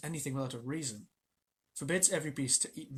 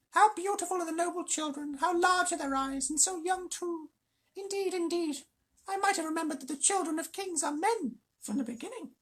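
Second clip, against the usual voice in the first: fawning jackal; 4 dB louder than usual. Acted. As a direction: lay the compliments on thick. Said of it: "Tabaki flattering the wolves".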